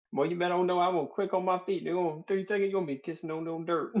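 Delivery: broken, half-hammed Orc-speak; mock Orcish. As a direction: put on a clumsy Orcish lilt. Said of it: "I say it in Orcish and I go".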